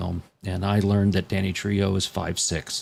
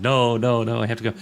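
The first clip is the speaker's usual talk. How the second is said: mock Polly; 3 semitones higher than usual. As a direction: play Polly begging to leave, teasing. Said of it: "Polly's just done".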